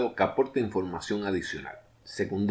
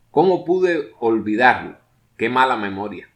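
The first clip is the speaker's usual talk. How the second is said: exasperated exclamation; 5 dB louder than usual. Shown as a demonstration. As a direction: scold yourself for forgetting. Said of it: "Cuando son exclamaciones breves".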